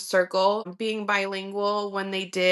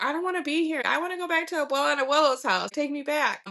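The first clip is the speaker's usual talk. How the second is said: imitating a kid's complaint, high and quick; high-pitched mock pleading; whining child; 6 semitones higher, faster than usual. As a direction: protest like a kid wanting to leave. Child complaining at latchkey, retold.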